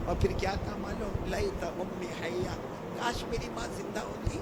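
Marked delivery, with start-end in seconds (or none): 1.3-4.4 soft longing. Acted. Prophet longing for mother, quoted.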